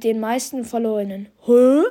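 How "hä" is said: surprised. Real, not acted. Reacts to surprising stat.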